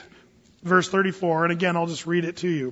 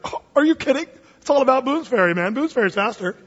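scoffing husband; 5 semitones higher than usual. Acted. Husband retorts in story.

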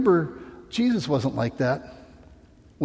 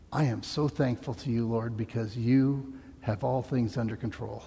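quiet thankful prayer; 4 semitones lower, 5 dB quieter than usual. Retold or imitated. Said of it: "where we can say".

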